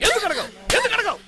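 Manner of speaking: escalating demand. Acted. Father presses daughter, three times.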